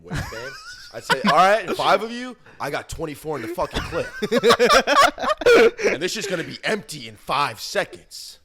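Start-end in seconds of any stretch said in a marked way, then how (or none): 1.2-4.1 mock tough guy. Friend imagining facing five guys, mock-tough. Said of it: "it would be like a hard ass line". 5.9-8.4 raised-pitch action-movie threat with amusement; mock tough guy. Friend imagining the scene before commercial, mock-tough. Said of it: "it would be like a hard ass line".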